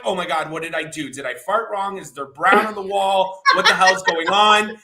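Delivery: mock panic. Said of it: "And I'm like".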